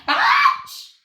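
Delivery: high, loud yelp of pain; shouted ouch. A narrator's reading. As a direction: yelp as if poked. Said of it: "shouted Henry".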